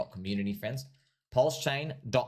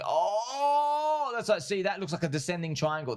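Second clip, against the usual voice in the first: mock bear trader; 8 semitones higher than usual. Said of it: "They're like".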